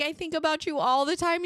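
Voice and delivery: very high, hammed-up tearful gushing; mock bawling. Crying mother gushing to the ER doctor, mock bawling. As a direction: imitate yourself blubbering at someone. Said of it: "I started bawling".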